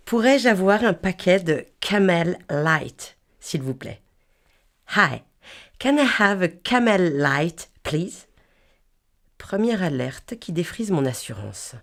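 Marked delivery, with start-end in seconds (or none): 5.0-8.3 put-on American accent. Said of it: "Je m'exprime en amerloc dans le texte".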